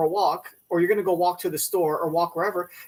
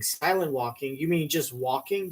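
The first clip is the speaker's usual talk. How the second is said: lower, slightly slowed sceptic; deadpan questioning; 3 semitones lower, 4 dB quieter, slower than usual. Acted. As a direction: query "silent walking" in a lowered voice. Acted sceptic questions the trend.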